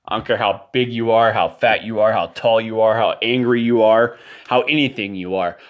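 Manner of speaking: getting worked up, voice rising in anger; heated rant. Real, not acted. Ranting to the camera about threats, heated and building. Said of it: "I apologize for the heightened emotions".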